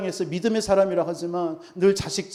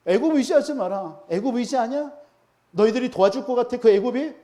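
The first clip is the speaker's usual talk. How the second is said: higher-pitched, jeering questions; mocking taunt; 4 semitones higher than usual. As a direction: taunt them as the enemy would. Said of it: "이렇게 조롱하고 있다니까요".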